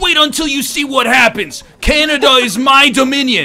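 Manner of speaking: shrill, very high, loud ranting shout. Retelling a man outside a grocery store, speaker acts out his shouting. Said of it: "he was shouting".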